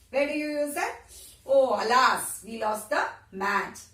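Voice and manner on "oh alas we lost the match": sorrow. Shown as a demonstration. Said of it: "in the times of sorrow also you use it".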